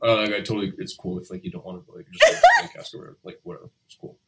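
fading to a whisper; awkward teen boy. Retold or imitated. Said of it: "awkward teenage boy being like".

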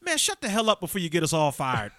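mildly hammed-up exasperated telling-off; annoyed scolding. Fake lion to screaming coworker at the zoo, mock exasperated scolding.

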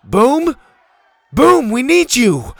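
high, loud, urgent call; calling for help. Acted. Bo looking for Boom, calling for help. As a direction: call out over the group.

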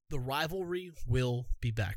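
burp breaking into the words. Real, not acted. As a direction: let a burp slip through. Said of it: "Excuse me for burping in the microphone".

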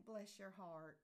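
matter-of-fact, condescending blessing; politely pitying. Acted. To someone who did something silly, politely pitying. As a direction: say it as a polite put-down. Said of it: "if somebody does something that is".

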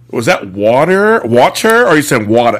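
imitating drawn-out New York "water"; playful questioning over New York vowels; New York accent. Son teasing mom back from visit, New York accent. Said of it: "my mother, when she goes back to New York".

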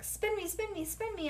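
high mock holler. A narrator's reading. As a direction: play a child begging for a spin. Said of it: "I hollered".

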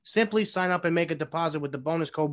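upbeat sponsor read, a touch pushed; ad read with enthusiasm. Acted. Reading the sponsor spot for the show, with forced enthusiasm. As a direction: sell the sponsor to the listeners. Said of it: "say it with enthusiasm".

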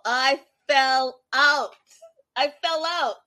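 breaking into real laughter; laughing. Real, not acted. Vlogger recalling the scene, laughing through it. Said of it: "I died of laughter".

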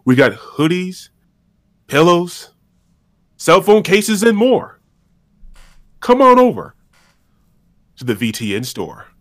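a hint of a ringmaster barker. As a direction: hype up the merch like a circus host. Merch announcement, ringmaster intro.

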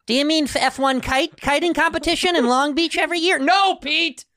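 high, loud mocking rant; shrieky mock outrage at a dumb mistake; mock exasperation. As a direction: scold with comic disbelief, voice way up high. Mocking Pete's kite search mistake.

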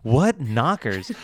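slow, drawn-out leer at the words; movie line quote. Retold or imitated. Quoting the film to her cohost, slow and leering. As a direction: savour "What knockers?" like the film does. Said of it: "quoting the movie".

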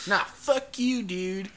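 high, loud imitation of a squabble; mock angry retort. Friend squaring up at the party, high mock-angry retort. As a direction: throw it back as hammed-up outrage.

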